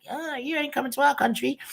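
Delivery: high, hammed-up French accent mocking a politician. Mocking Macron's refusal in a silly French accent. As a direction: put on a jokey French accent, way up in pitch. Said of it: "don't watch the accent".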